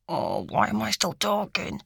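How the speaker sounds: soft mutter to herself. A narrator's reading. Lucy bites her lip and scolds herself, muttering. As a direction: mutter it under the breath. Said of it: "biting her lip and muttering".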